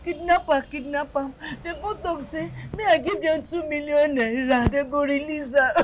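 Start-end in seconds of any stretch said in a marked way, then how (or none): 2.8-5.7 tearful account through sobs; crying. Acted. Mother recounts kidnappers' ransom demand, crying. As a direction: sob while explaining. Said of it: "Please, don't cry again".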